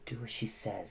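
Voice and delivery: low, soft aside; under his breath. A narrator's reading. Atreyu quietly urging Falkor, under his breath. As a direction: mutter it so only Falkor hears. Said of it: "said Atreyu under his breath".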